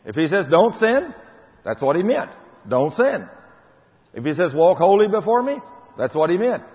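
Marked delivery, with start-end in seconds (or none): 0.5-1.1 "sin" barked high and loud, rising; God's command shouted; loud commanding quote. Acted. 4.5-5.6 loud commanding quote. Acted. Quoting God loudly.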